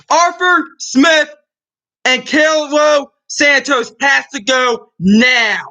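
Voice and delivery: slow, deliberate furious demand; angry shout. Real, not acted. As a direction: hammer each name slowly. Fan demands firing, slower.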